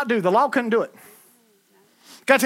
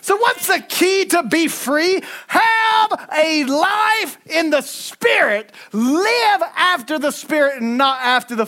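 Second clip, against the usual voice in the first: preached scripture; 4 semitones higher, slower than usual. Real, not acted. Preacher reads Romans to the congregation, slow and shouted. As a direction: ring each word out to the back pews.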